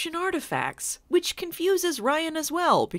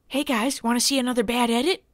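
goofy mock voice; faster than usual. Mock character pointing out edit.

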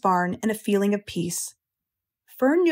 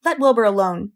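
sharp; 4 dB louder than usual. Acted. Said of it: "she spoke sharply to the lamb".

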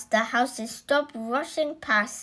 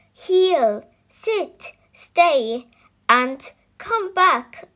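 higher and louder commands; louder shouted commands; 4 semitones higher, 6 dB louder, slower than usual. Acted. Dog owners ordering their dogs again, louder shouted commands. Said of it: "The dogs people all shouted".

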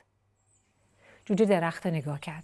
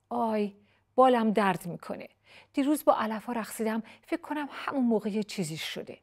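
whiny chick; 4 semitones higher than usual. Acted. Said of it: "جوجه خودش رو دوباره چسبوند".

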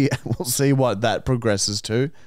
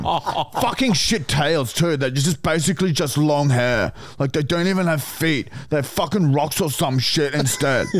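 higher, frustrated ranting message; mock angry rant; 5 semitones higher than usual. Reading his angry Tinder message about horses, hammed-up fury.

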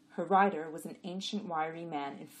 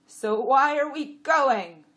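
high, loud, slow question; questioning donkey; 9 semitones higher, 14 dB louder, slower than usual. A narrator's reading. Jack challenging the jenny, high and loud. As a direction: ask loudly, stretching it out. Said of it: "Abbott asked".

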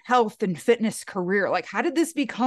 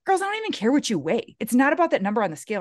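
put-on coach to girls; 3 semitones higher, faster than usual. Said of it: "I was like".

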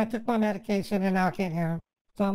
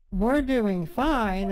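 Captain Howdy; much slower than usual. Retold or imitated. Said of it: "And he says".

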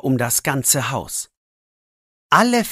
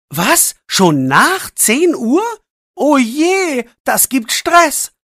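put-on much higher, louder alarmed boy; startled; 12 semitones higher, 5 dB louder, slower than usual. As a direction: suddenly realise the time. Max notices the late hour. (erschrocken, deutlich höher)

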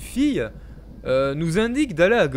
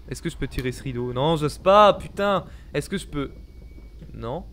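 panicking gamer; 3 semitones lower than usual. Real, not acted. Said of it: "je suis en mode stress".

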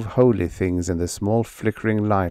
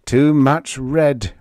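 cried within; 6 semitones higher, 5 dB louder, slower than usual. A narrator's reading. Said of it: "Roberto cried within".

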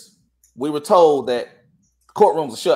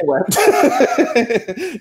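much higher, slow word drawn out through a laugh; 9 semitones higher, much slower than usual. Real, not acted. Teller laughing to shrug off the tangent. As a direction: laugh it off and move on.

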